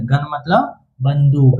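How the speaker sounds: a slow, clear gloss of gun मतलब बंदूक; slow teacher repetition. Shown as a demonstration. Teacher to pupils, slow clear gloss. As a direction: spell out "gun मतलब बंदूक" slowly and evenly. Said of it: "teacher repeats meaning slowly".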